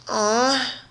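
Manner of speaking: high little pouting aw. A narrator's reading. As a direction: sulk on the single word. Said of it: "pouted even more".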